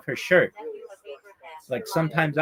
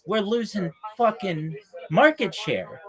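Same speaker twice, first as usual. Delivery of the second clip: mock whining; 6 semitones higher, slower than usual. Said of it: "pissing and moaning like".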